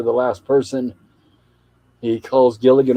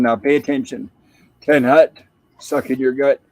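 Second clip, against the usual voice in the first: drill command. Retold or imitated. Skipper ordering Gilligan to attention, mock command.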